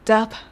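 ダパ with ダ strong and パ weak; stress on da. Shown as a demonstration. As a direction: hit ダ, let パ fall away. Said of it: "ダを強く、パを弱く発音します".

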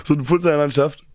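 words slurred together, swallowing sounds; mumbled. Real, not acted. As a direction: mumble the phrase away. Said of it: "Du hast grad richtig weggenuschelt". (richtig weggenuschelt, Laute verschluckt)

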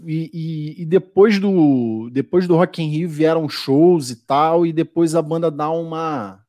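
choppy call audio, words stretched; audio breaking up. Real, not acted. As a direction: voice dragging over a lagging connection. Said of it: "O teu áudio tá bicorando pra mim". (áudio picotando na chamada)

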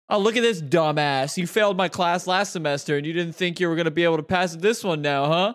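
mock-berate a failing student in front of everyone; imitated teacher's loud put-down; angry old teacher. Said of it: "he was this angry old Italian guy".

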